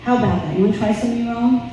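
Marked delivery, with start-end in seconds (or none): none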